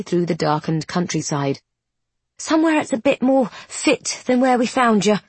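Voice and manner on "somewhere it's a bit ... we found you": gruff nun voice. A narrator's reading. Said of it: "Sister Catherine replies".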